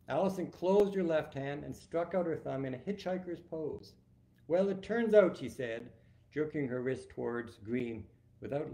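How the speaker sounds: author reading a scene, quotes lifted a little; gently voiced book reading; story narration. A narrator's reading. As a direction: read the dialogue with light character lift. Reads final reveal aloud.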